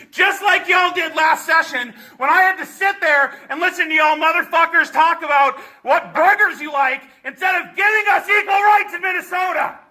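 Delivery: furious shouted rant at the committee; angry yelling. Real, not acted. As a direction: yell it out in real rage.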